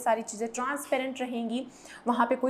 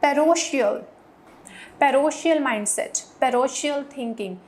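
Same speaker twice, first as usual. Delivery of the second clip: "parochial" said loudly and slowly, pa-ro-kee-al; emphatic vocabulary drill; 6 dB louder, much slower than usual. Shown as a demonstration. Teacher to class, slow loud drill of "parochial". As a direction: announce "parochial" loud and drawn out. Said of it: "हम एक और term भी use करते हैं".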